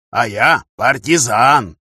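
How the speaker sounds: slow, proud declaration. Acted. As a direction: announce it with pride. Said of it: "гордо сказал Егор Михайлович".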